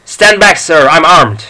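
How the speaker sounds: defensive shout. Acted. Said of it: "he shouted".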